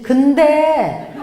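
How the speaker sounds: a long, heavy 근데 before the criticism; drawn-out 근데. Retold or imitated. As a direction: stretch 근데 slowly and loudly. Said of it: "그 소리 듣는데요". (근데를 길게 끌며 세게)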